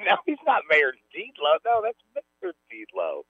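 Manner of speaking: high-pitched mock protest; retold correction. Player corrects the young guys, high retold protest.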